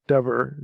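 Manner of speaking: Dever, with a V sound for the B; pronounced with V. Shown as a demonstration. Teacher showing listeners how Hebrew D E B E R sounds, pronounced with V. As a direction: say "Dever" with a clear V after the vowel. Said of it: "it's a V sound after a vowel".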